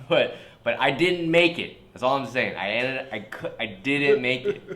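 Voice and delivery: high, loud, slow through laughter; laughing confession. Real, not acted. Admitting the embarrassing accident to his friend, laughing. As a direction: confess it while cracking up.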